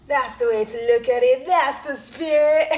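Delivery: loud, high, laughing pep-talk voice; cheery encouragement. Retold or imitated. Chatbot cheering her on, mock-laughing loud encouragement. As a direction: cheer yourself on through a laugh. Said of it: "And chat G P T is like".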